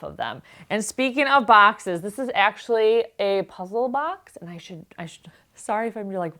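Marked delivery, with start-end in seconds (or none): 4.4-6.4 hushed whisper so husband won't hear. Real, not acted. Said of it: "all of a sudden whisper".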